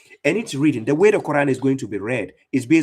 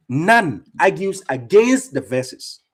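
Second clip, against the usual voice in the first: slow, stressed repeat; 3 semitones higher, much slower than usual. Shown as a demonstration. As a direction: drag out "None argues against the verses" word by word, much slower.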